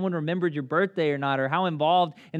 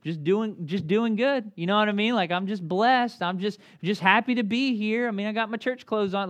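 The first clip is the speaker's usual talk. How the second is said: higher, a touch of fake cheer; mocking the stupid church faces we put on; 5 semitones higher than usual. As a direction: parody the cheerful church front. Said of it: "forget the stupid church faces we put on".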